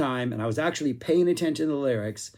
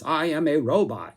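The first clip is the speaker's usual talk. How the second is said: lightly done stereotypical robot, only a hint of staccato; a mild hint of a clunky machine voice; 2 semitones higher than usual. Shown as a demonstration. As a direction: say it like a toy robot without fully committing. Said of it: "robotic voice".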